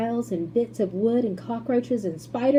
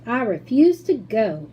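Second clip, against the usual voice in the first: announced; 3 semitones higher, 8 dB louder than usual. A narrator's reading. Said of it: "announced Grandpa George".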